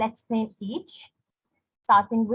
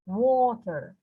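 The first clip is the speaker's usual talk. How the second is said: WA in "water" stressed; stress on first syllable. Shown as a demonstration. Teacher giving an example word, first syllable stressed. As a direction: lean on the start of "water". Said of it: "the wo part is stressed".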